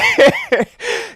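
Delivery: real high laugh breaking out; can't stop giggling. Real, not acted. Agent cracking up mid-lesson.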